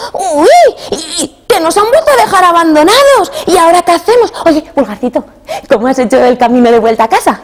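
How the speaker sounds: put-on high, anxious child's voice; a middle brother asking Pulgarcito for help; alarmed brother. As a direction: fret about being abandoned again.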